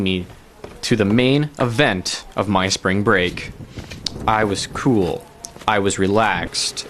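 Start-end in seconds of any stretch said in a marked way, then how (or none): 4.3-6.9 low, subdued show of being relaxed; unconvincing calm, slow and trailing into stammers; feigned cool. Pretend. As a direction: play it cool, then falter into hesitation. Feigned calm before admitting panic.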